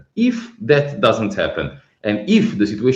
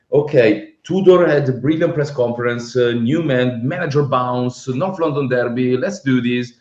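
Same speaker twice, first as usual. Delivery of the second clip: retold pep talk, lifted and rallying; mock optimism; 2 semitones higher, 3 dB louder than usual. Fan replaying his hopes before the derby, mock optimism. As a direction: build the hopeful case point by point, as if hyped.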